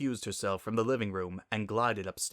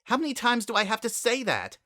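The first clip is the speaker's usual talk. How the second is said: barely held agitation; 13 semitones higher, 4 dB louder than usual. Acted. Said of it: "tried to keep the agitation out of her voice".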